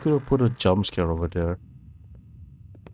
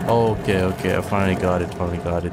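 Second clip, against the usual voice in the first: excited; 4 dB louder, faster than usual. Real, not acted. Solves puzzle.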